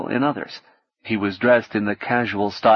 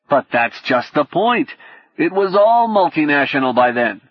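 heated argument; 4 semitones higher, 4 dB louder than usual. A narrator's reading. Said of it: "a loud discussion was in progress".

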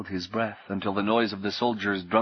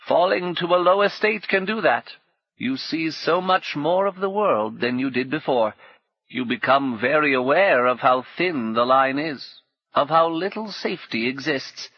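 put-on a bitter old woman, pitched higher and louder; 5 semitones higher, 3 dB louder than usual. Old woman complaining to Paul, higher and louder. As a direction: grumble like a worn-out old crone.

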